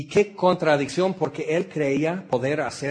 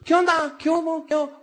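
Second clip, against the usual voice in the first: much higher quick throwaway hellos; hammed-up dismissive greeting; mock curt greeting; 13 semitones higher, faster than usual. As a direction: fire off careless hi's, barely looking up. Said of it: "O así muy".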